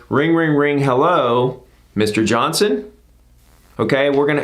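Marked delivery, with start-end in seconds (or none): 0.1-2.9 demo call opener. Shown as a demonstration. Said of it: "the first question is".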